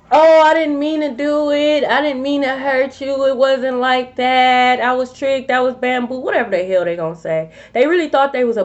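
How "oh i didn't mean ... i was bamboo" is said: mimicking a pleading excuse-maker; mock excuses. Mimicking others' whiny excuses.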